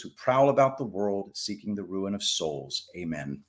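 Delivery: steady, solemn prayer recitation; recited prayer. Acted. Streamer leading viewers in a prayer, solemn recitation. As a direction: pray it earnestly, line by line.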